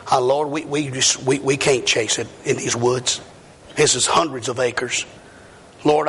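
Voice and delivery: lightly voiced humble prayer; retold prayer. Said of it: "So we just stopped, and I said".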